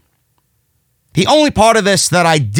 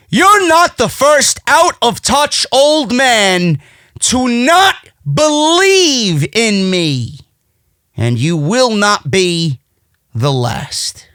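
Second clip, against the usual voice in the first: Brody Lee; 3 semitones higher, slower than usual. Retold or imitated. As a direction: deliver a drawn-out wrestling promo, dropping for the final words. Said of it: "Brody Lee tells Christopher Daniels".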